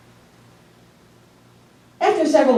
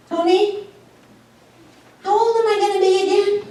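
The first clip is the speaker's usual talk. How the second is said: put-on high, fast little old mother voice; lightly voiced old mom; old mother asking; 12 semitones higher, faster than usual. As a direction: ask it like a forgetful mom.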